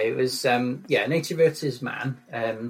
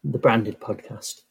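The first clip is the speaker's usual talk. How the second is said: low voice; 4 semitones lower than usual. Shown as a demonstration. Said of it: "in your low, low voice".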